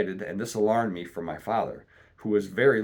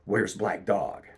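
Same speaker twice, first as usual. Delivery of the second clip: crying out; slower than usual. A narrator's reading.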